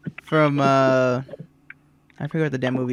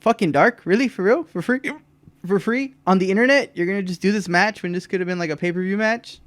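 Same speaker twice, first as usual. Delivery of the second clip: outraged disbelief; 4 semitones higher than usual. Retold or imitated. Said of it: "he's like".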